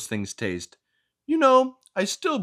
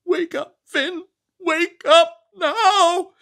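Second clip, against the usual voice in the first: high, loud indignant scolding voice; fussy book character; 7 dB louder than usual. Acted. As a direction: scold the reader for snacking. Character tries to wake up.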